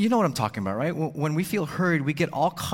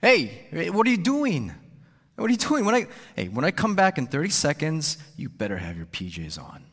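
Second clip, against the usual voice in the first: snapped; 3 semitones higher than usual. Retold or imitated. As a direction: scold sharply, then drop to a threat. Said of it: "I snapped".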